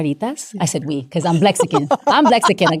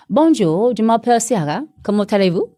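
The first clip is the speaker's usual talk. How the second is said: French accent; 3 semitones higher than usual. Shown as a demonstration. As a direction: introduce yourself as if in France. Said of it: "if I'm in France, I, I would say".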